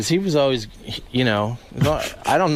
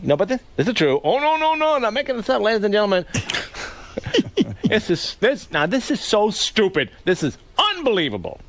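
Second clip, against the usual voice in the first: lightly voiced Leno monologue; Jay Leno impression; 3 semitones higher than usual. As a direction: play Leno working the crowd, half laughing. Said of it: "You do do a good Leno".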